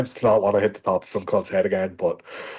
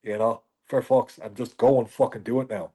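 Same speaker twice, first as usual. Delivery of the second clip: self pep talk; 4 semitones higher than usual. Retold or imitated. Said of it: "I do get a little bit like".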